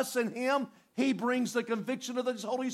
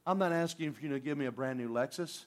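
quiet earnest prayer; 6 semitones lower, 3 dB quieter than usual. Retold or imitated. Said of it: "and you go".

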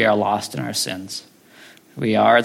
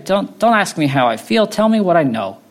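imitated insistent protest, pitched high; Alistair Begg; 7 semitones higher than usual. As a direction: push back in a high, exasperated voice. Continues Begg's exasperated reply.

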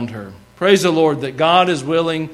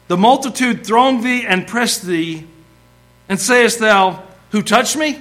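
higher-pitched, pointed disbelief; sarcastic, accusatory; 5 semitones higher than usual. Acted. Disciple quotes Jesus' question back at him, sarcastic and accusatory. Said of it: "sarcastic, accusatory tone to what Peter's saying".

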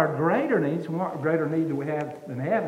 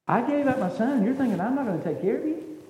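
offended God; 5 semitones higher than usual. Acted. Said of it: "I can see God be offended".

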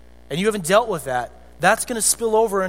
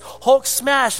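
mock Hulk roar; 5 semitones higher, 4 dB louder than usual. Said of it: "And he says".

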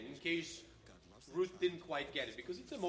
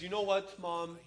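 a louder, higher daughter calling out to Mom; Orpah's farewell; 4 semitones higher, 8 dB louder than usual. Retold or imitated. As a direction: belt it out like the daughter saying goodbye. Teacher acting out Orpah's farewell.

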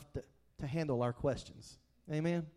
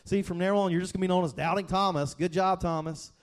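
a hammed-up scolding, louder and fast; mock confrontation, faster and pushier; 3 dB louder, faster than usual. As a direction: wag a finger at Thomas in mock reproach. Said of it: "one of those confrontations like".

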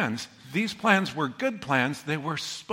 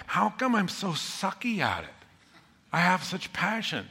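crushed inner voice; 3 semitones higher than usual. Retold or imitated. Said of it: "I was crushed because I thought".

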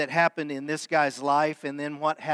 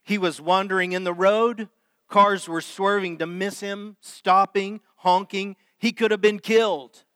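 scolding that builds, higher and louder toward the end; retold lecture; 5 semitones higher, 4 dB louder than usual. Stranger lecturing the parents, building to a higher, louder scold. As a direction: work up from stern to alarmed. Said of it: "he lit into a lecture".

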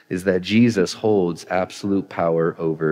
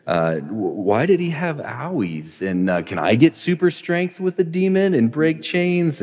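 put-on child voice, higher on the last questions; imitating his curious kids; 4 semitones higher than usual. Pastor imitating his kids asking Dad about demons, childlike and rising higher. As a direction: playfully voice a small child peppering Dad with questions. Kids' questions if read the story.

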